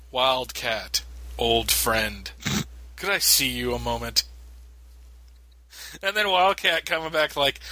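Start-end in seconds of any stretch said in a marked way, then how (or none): 0.1-4.2 stiff awkward speech. Retold or imitated. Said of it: "I just hate the stilted dialogue".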